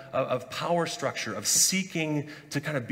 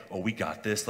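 burly bravado; 7 semitones lower than usual. Retold or imitated. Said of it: "that burly stature".

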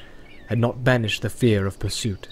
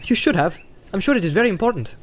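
Pippin voice; 8 semitones higher, faster than usual. A narrator's reading.

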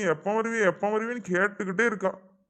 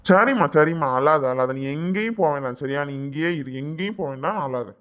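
lower, reassuring husband; earnest comforting; soothing; 6 semitones lower than usual. Acted. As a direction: hush a crying wife, firm at first then easing. Husband soothes his crying wife.

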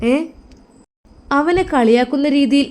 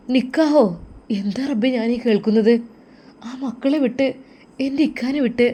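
shock; 3 semitones higher than usual. Acted. Shocked aunt hearing of elopement.

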